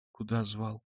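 barely dares to ask; timid question. A narrator's reading. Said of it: "робко спросила Соня".

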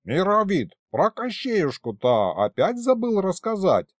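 high-pitched mild scoff; lightly exasperated reminder; snorting. A narrator's reading. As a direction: needle a forgetful old colleague. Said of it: "фыркнул зависший на своём привычном месте".

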